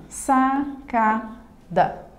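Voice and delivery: "Sacada" in three slow beats: sa, ca, da; syllable by syllable. Shown as a demonstration. Teacher showing three syllables to students, syllable by syllable. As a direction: pause after each syllable of "Sacada". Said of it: "Também possui três sílabas".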